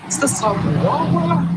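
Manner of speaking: high, slow, drawn-out "South Wawa" in a teasing voice; mocking soft voice. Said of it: "saying Wawa now".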